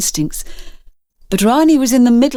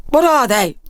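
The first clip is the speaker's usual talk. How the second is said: stammering; 5 semitones higher than usual. A narrator's reading. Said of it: "the pest controller stammered".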